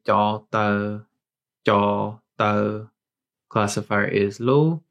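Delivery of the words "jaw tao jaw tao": careful Green Hmong demo; Hmong word. Shown as a demonstration. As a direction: say "jaw tao" clearly, in Hmong tones. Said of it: "we would say".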